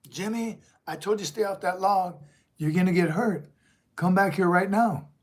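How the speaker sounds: a mild mock mom yelling at her son. Mom calling her son back from a log, mild mock yell. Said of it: "she yells at the boy".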